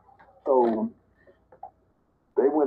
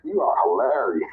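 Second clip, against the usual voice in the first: laughing; 5 semitones higher than usual. Real, not acted. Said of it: "So I'm busting out laughing".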